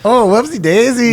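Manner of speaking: high, hammed-up Latino accent. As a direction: exaggerate a sing-song Latino accent. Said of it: "let's do a Latino accent".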